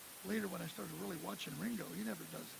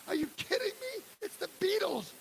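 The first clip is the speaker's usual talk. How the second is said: much higher, louder disbelieving cry; incredulous; 11 semitones higher, 4 dB louder than usual. Retold or imitated. Bob answers the dad's ticket request, high, loud disbelief. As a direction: act stunned that anyone would ask.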